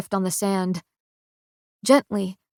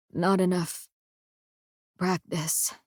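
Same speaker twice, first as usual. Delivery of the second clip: weak and quiet; 2 semitones lower, 6 dB quieter than usual. A narrator's reading. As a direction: barely get it out. Dying Kai smirking weakly.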